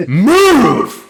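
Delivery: full-throated bellow to clear the way; furious shout. Acted. Frizz bellowing at the party to move. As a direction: roar it as a single command.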